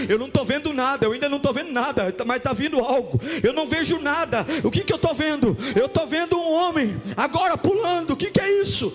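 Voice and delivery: high, fervent shouting that keeps building; impassioned pulpit crescendo; full-force preaching. Real, not acted. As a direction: build to a shouted climax, last word held long.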